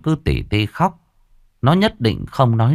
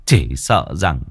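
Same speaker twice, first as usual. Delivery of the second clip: tearful father's plea. Acted. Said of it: "cúi mặt mà khóc mếu".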